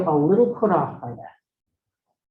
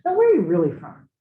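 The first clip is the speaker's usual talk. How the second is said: louder, leaning on the question as if doubting them; pointed suspicious asking; 2 semitones higher, 5 dB louder than usual. Shown as a demonstration. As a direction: ask it like you don't believe the answer. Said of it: "as opposed to".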